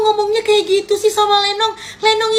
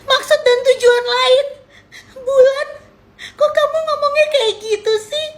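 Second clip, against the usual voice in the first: fake sobbing; 4 semitones higher than usual.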